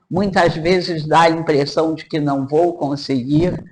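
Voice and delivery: ordinary delivery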